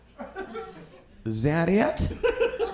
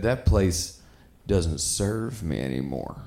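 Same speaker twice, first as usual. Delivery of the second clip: passive friend; 11 semitones lower, 4 dB quieter, slower than usual. Retold or imitated. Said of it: "he said".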